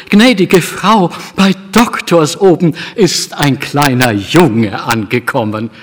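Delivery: breathless, excited servant's news; the flustered cook bursting in with news. A narrator's reading. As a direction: blurt the news out in a rush, high and loud. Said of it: "war ganz aufgeregt und sagte".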